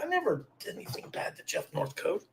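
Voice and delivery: whispered under the breath; whispering. Real, not acted. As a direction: drop to a whisper to deny it. Defensive aside muttered under breath.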